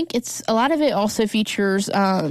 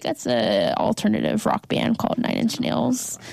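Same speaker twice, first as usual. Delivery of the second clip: raspy voice. Retold or imitated. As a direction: rasp it out flatly. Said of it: "her raspy voice".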